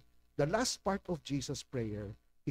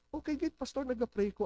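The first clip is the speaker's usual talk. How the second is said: higher, lightly voiced casual church member; a light hint of a carefree answer; breezy churchgoer; 9 semitones higher than usual. Congregant answering the pastor, lightly voiced and breezy.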